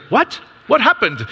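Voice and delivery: high, stunned what, what happened; mother on the phone told of the car, astonished; surprised. Retold or imitated. Stunned mother hears car news.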